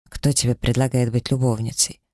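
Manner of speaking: plain reading voice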